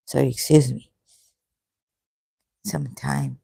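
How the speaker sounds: talking through stinging eyes; eyes burning. Real, not acted. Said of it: "My God, my eyes are burning now".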